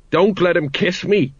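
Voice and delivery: high, alarmed squeak. A narrator's reading. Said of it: "squeaked Colon".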